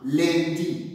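"lundi" repeated clearly as a model; model pronunciation. Shown as a demonstration. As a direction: give "lundi" again, crisp and clear. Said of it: "prononcez avec moi". ("lundi" répété, bien articulé)

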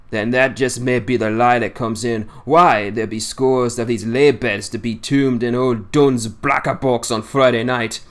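lightly voiced old seaman in thick dialect, scornful; a hint of a crusty old fisherman railing against lies; old Yorkshire sailor. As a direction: grumble it like a cantankerous old salt holding court. Swales continues.

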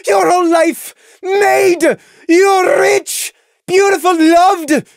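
high, loud, drawn-out wail of anger; bitter outburst. A narrator's reading. Lily resenting Saffron's life, loud bitter shouting. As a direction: hurl each word at her.

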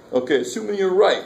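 lightly voiced New York accent. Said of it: "best attempt at a New York accent".

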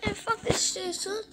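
high, loud, agitated complaining; venting hard at the game; frustrated rant. Real, not acted. Player just killed by enemy, high frustrated rant. Getting killed while streaming.

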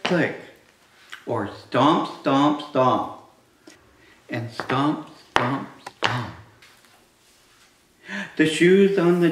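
put-on reading to children. Reading picture book aloud to kids.

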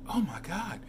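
mildly imitating a soft, quiet gasp; a hushed, half-whispered oh my God. The coworker murmuring softly as he walks by, quiet. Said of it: "she said it real softly and quietly".

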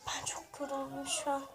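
tired whisper. Real, not acted. Tired child whispering to her viewers. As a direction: breathe it out, worn out.

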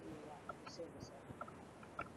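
soft, slow "You silly sod."; quiet catchphrase. Shown as a demonstration. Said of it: "the silly sod thing I got from".

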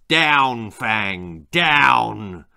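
loud barked dog command. A narrator's reading. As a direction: order the dog down. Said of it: "a loud command of".

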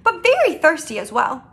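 animated read-aloud storytelling; lilting storybook reading; story narration. A narrator's reading. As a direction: narrate to children with lively emphasis.

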